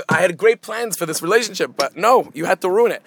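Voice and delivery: a let-down father scolding; mock-stern disappointed dad.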